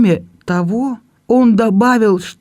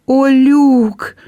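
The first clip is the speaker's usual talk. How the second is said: high, louder sob of his name; sobbing cry; 8 semitones higher, 4 dB louder than usual. Acted. Belinda turns to her brother, sobbing his name. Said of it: "всхлипнула Белинда".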